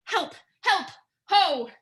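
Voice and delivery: high, frightened cry for help. Acted. Queen crying out as her son threatens her. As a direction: cry out in sudden fear.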